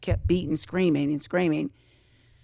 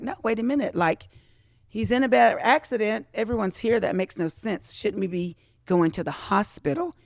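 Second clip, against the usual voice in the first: urgent disbelief; 4 semitones higher than usual. Retold or imitated. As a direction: push back in disbelief, voice climbing. Retelling urgent questions to mom.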